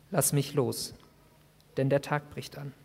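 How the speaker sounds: quiet, unhurried calm; a stranger's steady calm. Acted. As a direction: speak with eerie calm. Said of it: "Diese Ruhe in seiner Stimme".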